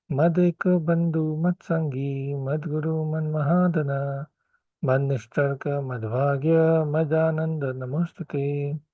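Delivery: measured devotional recitation; prayer recitation. Acted.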